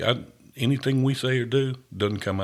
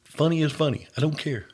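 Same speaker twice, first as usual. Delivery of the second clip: emphatic, carefree; 6 semitones higher, 4 dB louder than usual. Retold or imitated. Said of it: "I said".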